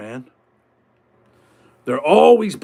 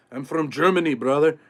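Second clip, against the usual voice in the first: mock German accent; 3 semitones lower, 4 dB quieter than usual. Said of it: "got a German accent talking about".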